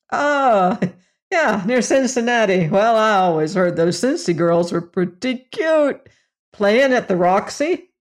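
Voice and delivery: a hint of a hearty, leering salesman; lightly voiced brash boss. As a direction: lightly play the jovial boss slapping backs. Narrator voices the boss Fader.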